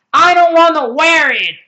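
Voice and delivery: high, loud growling protest; monster growl. Acted. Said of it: "a long, loud growl".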